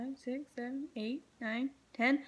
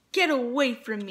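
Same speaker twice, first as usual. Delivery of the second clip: indignant cry; 4 dB louder than usual. Acted. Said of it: "cried the rainbow fish".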